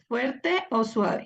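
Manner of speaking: Fuerte and suave drawn out, a pause between; a teacher slowing down to prompt the class; slow prompting question. Shown as a demonstration. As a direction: ask it slowly so students choose. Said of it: "¿qué espíritu es ese?".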